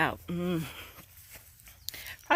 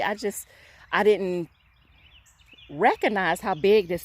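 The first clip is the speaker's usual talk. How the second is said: fervent praise; 5 dB louder than usual. Real, not acted. Praising God over the harvest.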